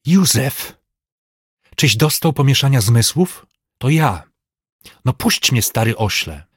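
indignant protest. A narrator's reading. Master angrily protests being seized by servant.

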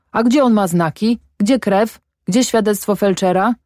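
muffled, bandaged-jaw mumble; mumbling through bandages. A narrator's reading. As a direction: mumble as if mouth is tied shut. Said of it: "bełkotał Herman".

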